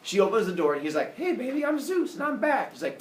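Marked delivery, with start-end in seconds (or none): 1.2-2.7 higher-pitched, breezy mock greeting; cocky returning Zeus. Zeus greets Semele at the door, cocky. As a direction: play a god announcing he's back.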